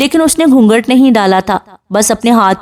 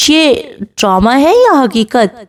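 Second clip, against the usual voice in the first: slow, playful teasing question; 3 semitones higher, slower than usual. Acted. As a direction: tease her gently, drawing it out. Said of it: "شرارت سے پوچھتا ہے". (شرارت بھرا سوال)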